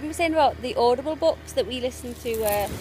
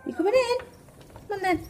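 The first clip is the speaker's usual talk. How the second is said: calling the dog; 10 semitones higher, faster than usual. Real, not acted. Calling the dogs inside.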